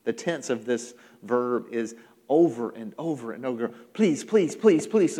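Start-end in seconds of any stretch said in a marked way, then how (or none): 3.9-5.2 repeated, insistent pleas; a touch of urgent begging; pleading. Acted. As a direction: plead over and over without a break. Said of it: "He pleaded".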